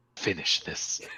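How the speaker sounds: heartfelt, utterly sincere, breathy, hushed whisper. Narrating a scene, voicing another character's words in the most sincere voice. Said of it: "the most sincere voice you've ever heard".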